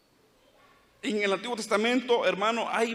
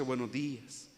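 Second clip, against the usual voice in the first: meek greeting; 8 semitones lower, 7 dB quieter than usual. Retold or imitated.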